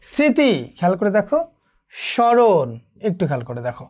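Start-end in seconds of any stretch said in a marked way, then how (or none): 0.0-0.5 স্মৃতি said as sriti or siti, no m; silent m, slight nasality. Shown as a demonstration. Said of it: "একটু নাসিক্য রয়েছে।". 1.9-2.7 স্মরণ said as shoron, no m; silent m, slight nasality. Shown as a demonstration. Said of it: "একটু নাসিক্য রয়েছে।".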